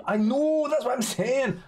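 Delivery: loud, very high exasperated agreement; exasperated outburst. Real, not acted. Streamer ranting about how beans get batched, exasperated. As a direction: burst out high and loud, worked up.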